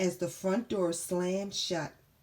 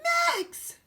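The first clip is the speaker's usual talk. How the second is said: high yelled order; yelling; 14 semitones higher, 3 dB louder, slower than usual. Acted. Dakota yelling at Max to grab the spoon, high and loud. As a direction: yell it, urgent. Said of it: "yelled Dakota".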